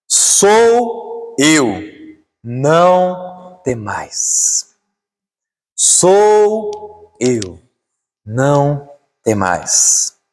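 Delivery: slow, drawn-out solemn quote; weighty, very slow proclamation; Jesus speaking. Acted. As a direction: stretch each word with long pauses. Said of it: "Mas Jesus lhe disse".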